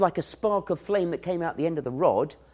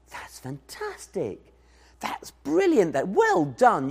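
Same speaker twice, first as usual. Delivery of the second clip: encouraging praise; slower than usual. Pretend. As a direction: cheer the little one on. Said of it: "You give them lots of encouragement".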